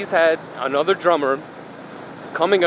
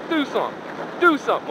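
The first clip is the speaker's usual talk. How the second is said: daring challenge; 8 semitones higher, faster than usual. Retold or imitated. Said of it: "So that was my only response".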